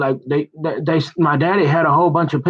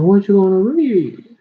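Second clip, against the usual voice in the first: mock loud challenge; 9 semitones higher, 4 dB louder than usual. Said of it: "you're like, uh, you know".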